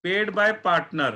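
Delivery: each word stretched out very slowly; slow emphatic. Shown as a demonstration. Teacher stressing the key term for the class, very slowly. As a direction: draw out the phrase word by word.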